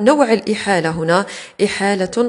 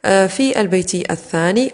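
ordinary talk

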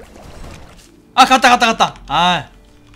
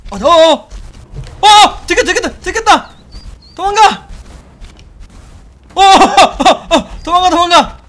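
panicked high yelps, much louder; scared horror game streamer; 9 semitones higher, 9 dB louder, slower than usual. Real, not acted. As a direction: scream and flee in panic. Spotted by monster, fleeing.

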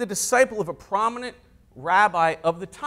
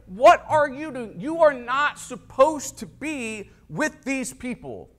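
mock outrage, raised pitch, emphatic; enraged; 3 semitones higher than usual. Preacher voicing Pharisees objecting to the company, enraged. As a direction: scold in imitated indignation, leaning on each word. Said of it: "They're enraged".

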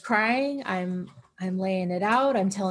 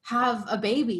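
raw anguished venting; 3 semitones higher than usual. Retold or imitated. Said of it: "no censored words".

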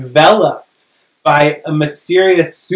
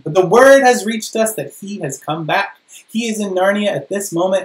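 lightly voiced eager beaver, higher; a hint of a excited little creature; Mister Beaver; 4 semitones higher, 4 dB louder than usual. Mister Beaver voiced in read story.

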